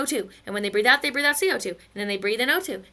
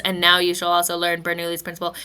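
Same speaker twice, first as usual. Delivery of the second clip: lightly voiced solemn father; low, stately instruction to a child; a hint of a grand patriarch; father prairie dog; 4 semitones lower than usual. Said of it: "the father prairie dogs".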